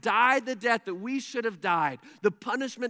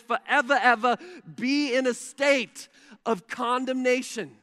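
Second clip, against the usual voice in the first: louder, higher, driving sermon voice; a pastor proclaims no condemnation to his church, loud and rising; full-force preaching; 4 semitones higher, 5 dB louder than usual. Real, not acted. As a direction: build to a ringing proclamation.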